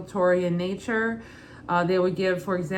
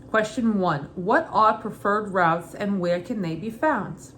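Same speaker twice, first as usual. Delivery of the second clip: put-on Brooklyn accent. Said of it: "Every question I'll read in my mother's Brooklyn accent".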